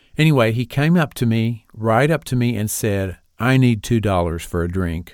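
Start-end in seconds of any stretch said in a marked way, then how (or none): 3.4-5.2 sad, forlorn, hangdog pleading voice. Retelling what a stranger asked for: imitating a forlorn voice. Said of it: "kind of in this forlorn voice".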